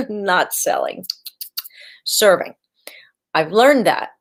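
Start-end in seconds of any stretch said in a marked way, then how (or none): 0.1-2.5 hushed emphatic whisper. Acted. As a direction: breathe the word like a secret. Correcting herself: not selling, serving.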